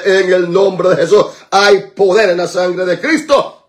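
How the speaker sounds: steady, rolling prayer declarations; fervent prayer. Real, not acted. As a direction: keep the intercession pressing onward. Prayer continues, lower and steadier. (oración declarativa y constante)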